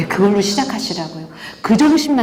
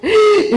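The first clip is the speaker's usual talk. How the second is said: a sharp, high, loud gasp imitating a mother in tears; mock sob gasp; 12 semitones higher, 5 dB louder than usual. Pastor imitating the crying mother's gasp, hammed-up. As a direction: gasp loudly as if bursting out crying. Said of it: "이상한 소리를 내면서 나왔다는 거예요".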